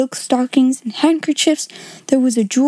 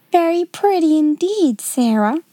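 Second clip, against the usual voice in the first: lightly raised, prim approval; a hint of a stiff schoolmistress praising; approving headmistress; 5 semitones higher than usual. A narrator's reading. Headmistress praises Sarah's curtsy, lightly prim and approving. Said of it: "approved Miss Minchin".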